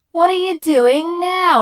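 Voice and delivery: high, loud, drawn-out demand; looming mum demanding. Acted. Mum standing over the boy, exasperated shout. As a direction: catch a child red-handed. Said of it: "she's standing over me going".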